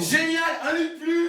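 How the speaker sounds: high, loud whoop of delight; gleeful cheer. Acted. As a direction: crow at the lucky news. Gleeful reaction to the empty bed. (exclamation de joie, aiguë et forte)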